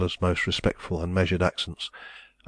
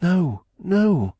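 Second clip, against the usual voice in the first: high, loud protest; 11 semitones higher, 5 dB louder than usual. A narrator's reading. Woman protesting Raymond's pleading, high and loud. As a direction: push back hard against him. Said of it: "she protested".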